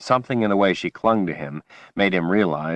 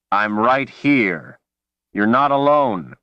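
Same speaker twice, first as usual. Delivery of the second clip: urgent reassurance; 4 semitones higher, 4 dB louder, slower than usual. Acted. Man pleading with panicked woman.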